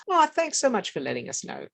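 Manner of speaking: high-pitched, breezy thank-you; gracious thanks. Acted. Therapist voices grandmother answering a critical visitor, gracious thanks. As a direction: thank them as if truly grateful. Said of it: "Or she says".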